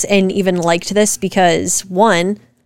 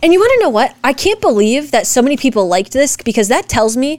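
riled up and pushing harder; fired up and indignant; getting fired up; 4 semitones higher than usual. Real, not acted. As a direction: voice jumping high with heat. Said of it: "She's getting fired up".

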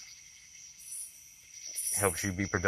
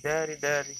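put-on high, eager little-girl voice calling out; 8 semitones higher than usual. Four-year-old daughter spots dad at preschool pickup, high eager calling.

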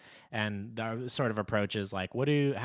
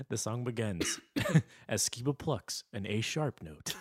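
after laughing hard. Real, not acted. Jokingly narrates song through laughter.

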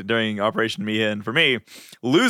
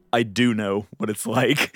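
measured, slower, stress on "do"; calm reply; 2 semitones lower than usual. Acted. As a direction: answer an outburst calmly and deliberately. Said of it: "like, calmly says".

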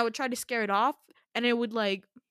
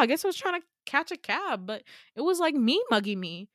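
joking disbelief; 5 semitones higher, 5 dB louder than usual. Retold or imitated. Joking about the raven.

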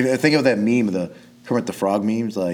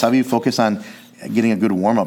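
fired-up scolding; 4 semitones higher, 5 dB louder, faster than usual. Retold or imitated. Mock lecturing jiu-jitsu people.

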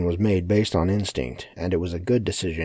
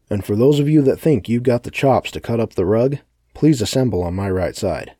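projected call to a crowd, raised at first; commanding announcement; 4 semitones higher, 5 dB louder than usual. Acted. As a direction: address the room like a showman giving orders. Villain sorts the crowd aloud.

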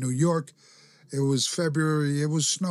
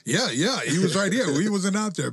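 backing alibi; 6 semitones higher than usual. Retold or imitated. Davey Boy vouching for Owen, high mock alibi. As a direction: cover for your friend.

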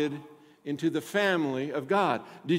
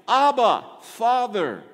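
raised, emphatic call of Scripture; crying out; 4 semitones higher, 5 dB louder, slower than usual. A narrator's reading. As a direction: cry it out to the Father, higher and louder.

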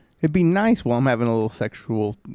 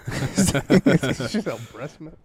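slowed down by real laughter; laughing; 3 semitones higher, much slower than usual. Real, not acted. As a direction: talk through your laughter. Cracking up at their own joke.

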